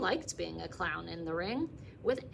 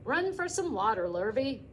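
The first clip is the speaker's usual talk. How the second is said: urgent calling; 3 semitones higher, 4 dB louder than usual. Acted. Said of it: "hollered Zuckerman".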